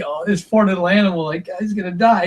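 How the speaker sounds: a touch of tearful pity, retold; emotional pity. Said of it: "I get all emotional".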